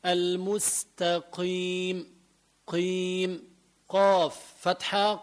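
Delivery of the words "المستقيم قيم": المستقيم slowly, "qiim" with lips unrounded; lightened ق. Shown as a demonstration. Teacher correcting the rounding, lighter ق in المستقيم. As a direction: ease the heaviness of ق in المستقيم. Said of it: "لا".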